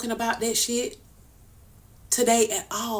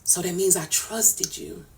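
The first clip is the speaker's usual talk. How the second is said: barely holding it together, voice sinking to a whisper; hurt, breaking down; 4 semitones lower, 9 dB quieter than usual. Real, not acted. Telling Nitra she hurt her, in a hushed, hurt voice. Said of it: "I get emotional".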